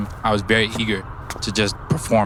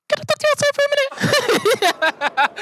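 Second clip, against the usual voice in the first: very high, airy mock white lady voice; white woman voice. Mimicking the instructor asking him outside, very high. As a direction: imitate that high polite teacher voice. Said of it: "I don't know why white women do this with their voice".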